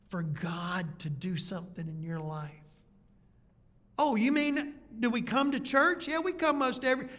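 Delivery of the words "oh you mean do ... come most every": higher, chirpy voice missing the point; mock clueless churchgoer. Preacher imitating a churchgoer who thinks he means attending church, higher. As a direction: play a congregant proudly answering the wrong question.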